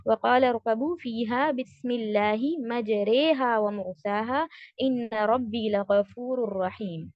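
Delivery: measured tajweed recitation with held long vowels; Quran recitation. Shown as a demonstration. Teacher reciting the imala verse for students, measured recitation. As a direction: recite the verse, drawing out the elongations.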